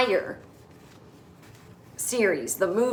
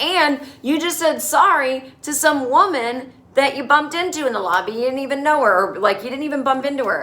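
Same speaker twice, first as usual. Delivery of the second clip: higher, mildly mock-indignant retort; imitated exasperation; 5 semitones higher, 4 dB louder than usual. Husband challenges wife over saying sorry, imitated exasperation. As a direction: argue it back in imitated exasperation.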